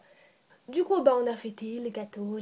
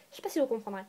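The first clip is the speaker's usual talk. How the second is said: whisper; 2 semitones lower, 4 dB quieter, much faster than usual. Real, not acted.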